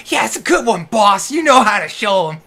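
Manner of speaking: high, loud goblin minion; squeaky toady sidekick; cackling minion voice. Acted. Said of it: "cackling laughter from these little guys".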